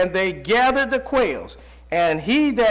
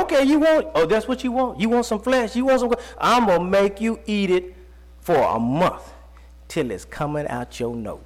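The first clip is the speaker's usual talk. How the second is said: voicing God. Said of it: "He said".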